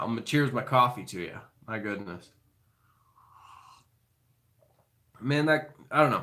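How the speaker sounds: emotional, choked-up, catching voice. Thanking a viewer for a kind quote, choked up. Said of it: "Now I gotta compose myself".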